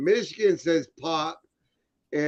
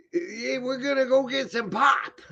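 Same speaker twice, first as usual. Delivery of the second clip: put-on Michigan accent; 6 semitones higher than usual. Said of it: "up in Michigan, it was always pop".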